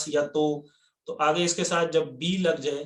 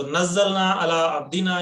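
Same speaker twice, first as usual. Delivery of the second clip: slow model reading; 2 semitones higher, 3 dB louder, slower than usual. Shown as a demonstration. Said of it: "یہ ایک نیا فریز آیا".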